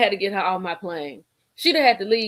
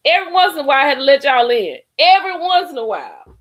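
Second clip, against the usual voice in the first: laughing; 6 semitones higher, 7 dB louder, faster than usual. Real, not acted. Laughing while bragging.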